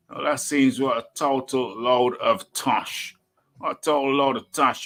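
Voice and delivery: lightly Australian, mocking the excuse; Australian accent. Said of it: "my Australian accent".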